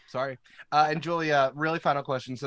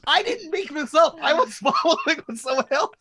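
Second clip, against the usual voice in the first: protesting high; 13 semitones higher, 6 dB louder than usual. Real, not acted. Defending himself laughing.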